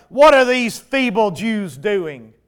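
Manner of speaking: slow scornful reading of the jeer; read taunt. Acted. The enemy mocking the Jews, read with a light sneer. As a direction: let the sneer show but keep it near the reading voice. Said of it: "he said in the presence of".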